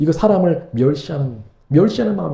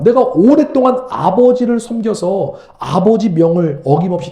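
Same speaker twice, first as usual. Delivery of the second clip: complaining to father. Acted. Older son confronts his father over the fatted calf, resentful protest. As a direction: argue your case with a grudge. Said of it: "아버지께 첫째 아들이 따지고 있는".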